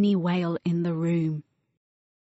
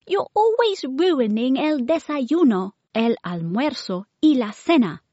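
higher, whiny accusation; sibling's complaint; 6 semitones higher, 4 dB louder than usual. Acted. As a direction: nag a clumsy sister.

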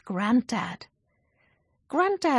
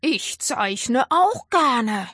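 lightly voiced, slow friendly dragon; dragon agreeing; 3 semitones higher, 5 dB louder, slower than usual. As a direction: warm happy agreement. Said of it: "Douglas agreed".

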